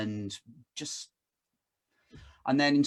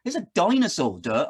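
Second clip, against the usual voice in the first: imitating a cheeky know-it-all child; 4 semitones higher, 4 dB louder than usual. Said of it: "she looked at it and went".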